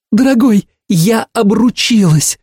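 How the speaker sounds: high, slowed, savouring reveal; Ursula announcing. A narrator's reading. Ursula revealing her engagement on the phone, high and drawn out. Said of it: "сообщила Урсула".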